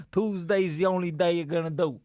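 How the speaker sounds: hammed-up New York boss accent; thick American accent. Comedy host plotting like a mobster, thick American accent. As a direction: give orders in broad New York. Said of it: "we just did our thick best American accents".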